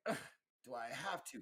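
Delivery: mildly indignant, put-upon grumble; a touch of indignant protest; indignant chirp. Acted. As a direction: voice a reluctant robot's complaint. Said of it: "almost like a indignant".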